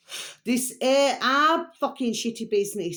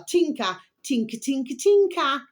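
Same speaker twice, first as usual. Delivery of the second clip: mocking singsong; 5 semitones higher than usual. Mocking repeated word, rising.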